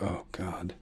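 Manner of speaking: breathy whispered aside, no voice; whispered "oh God" under the breath; whispered dread. Retold or imitated. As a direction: whisper it like a private groan of dread. Inner dread at wife's wish.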